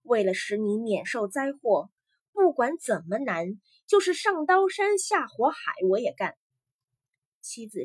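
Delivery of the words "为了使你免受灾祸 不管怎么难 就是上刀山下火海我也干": firm, rising to a loud vow. Acted. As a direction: swear it firmly, building to the last line. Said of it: "于哥坚定地说". (坚定地发誓，越说越响)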